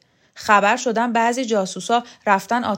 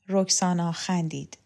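ordinary talk

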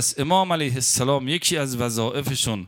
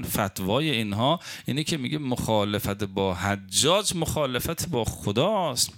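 ordinary delivery

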